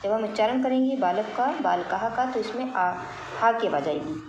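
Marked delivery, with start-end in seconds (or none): 1.6-2.3 बालकः with the visarga breathed out as ha. Shown as a demonstration. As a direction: say बालकः as baalakah. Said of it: "विसर्ग लगे हैं ये हा की आवाज़ देते हैं".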